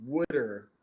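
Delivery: water said as wooder, the Philly Delco way. Shown as a demonstration. Guest showing how his sister says wooder. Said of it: "will say".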